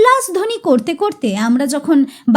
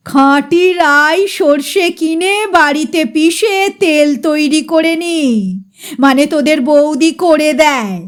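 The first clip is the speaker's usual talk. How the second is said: proud manner. Acted. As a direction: savour every word of your pure mustard oil. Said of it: "গর্বিত ভঙ্গিতে বলে".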